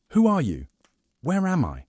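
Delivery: high, loud panicked cries; frightened scream. A narrator's reading. Kidnapped Persephone screaming at Hades, panicked and loud. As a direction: scream it out in terror. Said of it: "she screamed".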